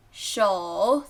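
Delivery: 首 drawn out in a dipping third tone; slow, low third tone on 首. Shown as a demonstration. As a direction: dip slowly through 首.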